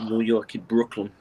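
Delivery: a light stab at Brooklyn New York; New York accent. Shown as a demonstration. Showing off to friends, lightly done New York accent. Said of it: "There's only one accent I'm good at".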